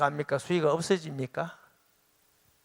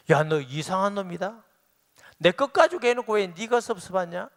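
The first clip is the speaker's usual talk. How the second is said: louder, higher rebuking voice of God; 5 semitones higher, 4 dB louder than usual. Retold or imitated. God rebuking the pastor loudly and higher. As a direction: scold him as God would.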